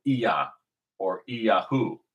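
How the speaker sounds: Iya and Iyahu each opened with "ee"; variant pronunciations. Shown as a demonstration. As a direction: say Iya as ee-yah, Iyahu as ee-yah-hoo. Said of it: "that Y is actually".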